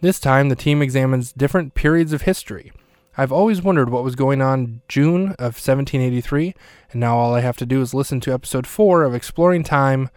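lightly projected sponsor read; podcast ad read. Acted. Host plugging a history podcast for the sponsor break, ad read.

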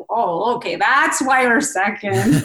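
drawn-out sarcastic dawning; mock realization. Skater jokes about learning of the fix, mock realization. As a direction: stretch it out as a knowing joke.

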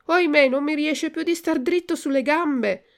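high, loud acted lament; distressed wail. Lucignolo can no longer stand up, high distressed wail. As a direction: wail it out in dismay. Friend wails that legs fail him.

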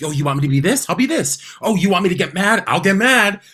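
high, loud, sarcastic challenge; fed-up contestant snapping back, loud and high; defiant outburst. Retold or imitated. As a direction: throw their demands back at them. Retold defiant outburst on show.

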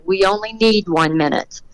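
retold calm, measured reassurance. Crew member answers the safety guy's warning, retold very calmly. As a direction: keep it level and unhurried. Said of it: "Eddie very calmly said".

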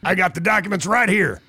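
lightly voiced ranting conspiracy host; a hint of a fired-up talk radio rant, half joking; Alex Jones voice. Host slips into a mock conspiracy rant for his cohost. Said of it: "I can feel you just itching to go into the Alex Jones voice".

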